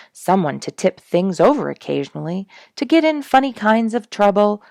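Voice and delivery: from calm to loud and eager; growing enthusiasm. Acted. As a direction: build up excitement toward the end. Wishing a youth were there.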